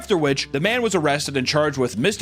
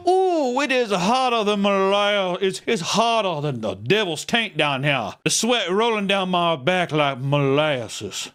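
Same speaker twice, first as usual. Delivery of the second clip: put-on slow, drawn-out French Southern accent from the bayou; 4 semitones higher, slower than usual. Imagining his son on the bayou, slow French Southern accent. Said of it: "he has a French Southern accent".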